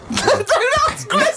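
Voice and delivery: mocking exclamation. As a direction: throw it back in ridicule. Laughing mock of builders' line.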